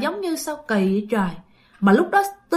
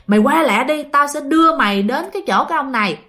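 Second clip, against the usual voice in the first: louder, higher retold urging; urging to hurry; 4 semitones higher, 3 dB louder than usual. Friend on the phone rushes her over, urging. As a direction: hustle a friend along insistently. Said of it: "Cô Hồng hối quá trời các bạn".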